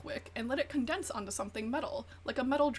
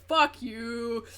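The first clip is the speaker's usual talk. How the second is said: louder, flat fuck you; blunt loud retort; 7 dB louder than usual. Retold or imitated. Stepdad cursing at the couple, loud and blunt. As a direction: snap it like a stepdad losing patience. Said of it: "he was like".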